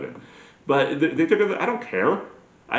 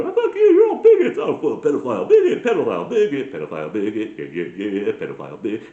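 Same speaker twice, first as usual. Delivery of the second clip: mock shouting match; 5 dB louder than usual. Two political extremes yelling at each other, hammed-up quarrel. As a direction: trade insults in a silly raised voice.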